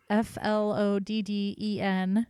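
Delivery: spelled F L O D D E N letter by letter; spelling it out. Shown as a demonstration. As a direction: spell F L O D D E N slowly, one letter at a time. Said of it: "in case you thought I was saying something else".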